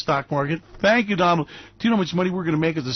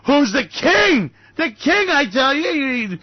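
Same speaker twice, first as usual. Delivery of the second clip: mock cheer; 7 semitones higher, slower than usual. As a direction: crow it like a rally chant. Hammed praise of Trump.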